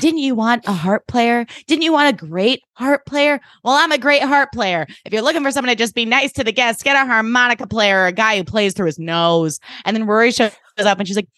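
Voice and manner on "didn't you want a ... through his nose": high, indignant mock retort; rude. Drella answering Lorelai about being rude to guests, rude. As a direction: play an affronted harpist telling off the boss. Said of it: "is being, like, rude to the guests".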